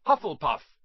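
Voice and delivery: loud announcing shout; hat shouting. Acted. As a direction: call the house out proudly to the hall. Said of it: "shouted the hat".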